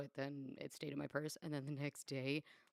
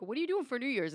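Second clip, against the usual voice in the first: mock excited friend; 9 semitones higher, 6 dB louder, faster than usual. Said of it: "was like".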